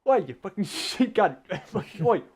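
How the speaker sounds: mock yell to round up strays; shouting. Lost friends shouting at sheep in the night, shouting. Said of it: "just fucking shouting like".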